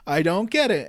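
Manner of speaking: a lightly voiced, clueless Hammer, rising; Hammer's confused question. Recapping the plot, he voices Hammer's confused protest. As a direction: play it dim and baffled. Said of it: "And Hammer's like".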